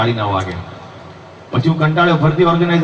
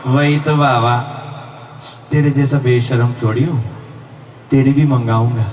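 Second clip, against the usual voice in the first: beggar's retort; 3 semitones lower than usual. Retold or imitated. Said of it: "ભિખારીઓ".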